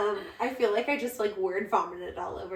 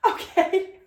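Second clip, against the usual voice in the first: meek okay; 10 semitones higher, 7 dB louder than usual. Retold or imitated. Sister's meek reply quoted.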